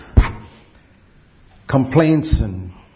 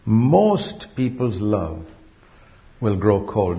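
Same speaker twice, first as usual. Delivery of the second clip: solemn slow; much slower than usual. Acted. Repeats warning slowly.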